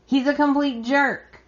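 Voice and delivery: mock outraged yell without real volume; exasperated retort, pitch jumping up at start and end; retold indignant yell. Xander yells at Zoe about Thomas, retold mock outrage. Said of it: "Xander yells".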